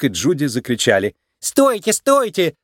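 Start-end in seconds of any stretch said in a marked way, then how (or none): 1.4-2.6 high, urgent call to halt; crying out. A narrator's reading. Daughter halts her father's execution, crying out high and urgent. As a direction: call out sharply to stop them. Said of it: "закричала Фру-Фру".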